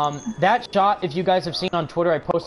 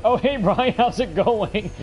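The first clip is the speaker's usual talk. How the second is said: high, giggly fan hello; retold flustered greeting; 5 semitones higher, slower than usual. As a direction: greet your idol in a higher voice, with a laugh. Retelling his flustered greeting to idol.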